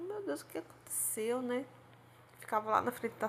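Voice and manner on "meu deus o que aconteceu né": whispered thought. Retold or imitated. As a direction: whisper it to yourself, worried. E eu fiquei pensando. (sussurro preocupado)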